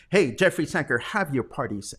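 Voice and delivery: ordinary talk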